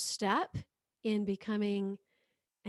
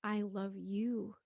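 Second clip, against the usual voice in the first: slow sincere; 3 dB quieter, slower than usual. Shown as a demonstration. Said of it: "say out loud, use your voice".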